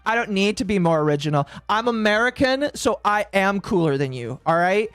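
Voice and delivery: lightly hammed cocky boast; smug American brag. Streamer plays a bragging American to Brits, mock cocky. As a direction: puff up like a gloating American, half joking. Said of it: "It's like".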